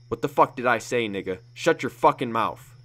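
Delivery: furious loud warning. Acted. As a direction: shout him down to shut him up. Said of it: "Joseph said louder".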